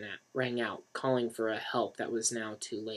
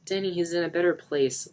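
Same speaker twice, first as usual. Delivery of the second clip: comforting; 6 semitones higher, 3 dB louder than usual. A narrator's reading. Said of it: "Lisa tried to comfort".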